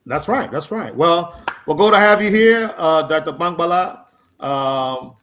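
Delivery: usual speaking voice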